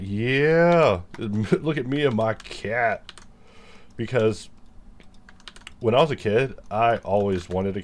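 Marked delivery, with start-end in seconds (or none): 0.0-3.1 selfie voice. Retold or imitated. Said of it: "and I'm like".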